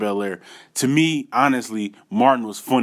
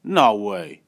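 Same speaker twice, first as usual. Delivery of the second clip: disbelief; slower than usual. Retold or imitated. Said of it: "I'm squinting like".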